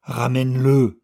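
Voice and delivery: high, loud demand; crying out. A narrator's reading. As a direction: cry out, dragging him along. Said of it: "cria la vieille femme". (cri, plus aigu et fort)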